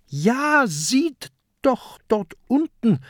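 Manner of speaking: high, eager pirate voice; high-pitched excited reply; excited calling. A narrator's reading. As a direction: call out high to show them. Pirate excitedly points out amulet.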